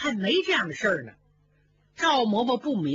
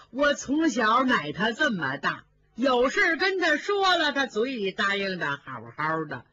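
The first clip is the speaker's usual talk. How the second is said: a hint of an old woman begging a favour; old nanny Zhao. Old nanny asking the young mistress for help, lightly voiced old woman.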